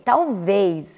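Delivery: ordinary delivery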